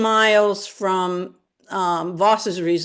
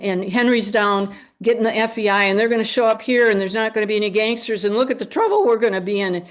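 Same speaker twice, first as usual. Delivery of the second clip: freaking out; faster than usual. Retold or imitated. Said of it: "So she's kinda shaken".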